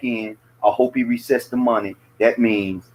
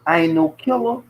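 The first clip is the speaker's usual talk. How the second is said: quoting a rapper; 4 semitones higher than usual. Retold or imitated. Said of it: "I'm like a rapper".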